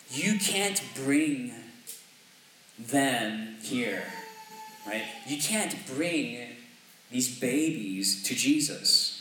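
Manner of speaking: bar the way, slowly and firmly; stern disciples. Retold or imitated. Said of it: "the disciples are telling them".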